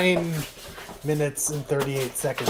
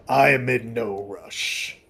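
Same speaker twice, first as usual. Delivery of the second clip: game voice line; slower than usual. Retold or imitated. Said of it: "which is somebody's voice line".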